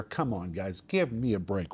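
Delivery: imitating dismissive scoffers; mock ridicule. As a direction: brush the believers off with mild mockery. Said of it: "they're ridiculing".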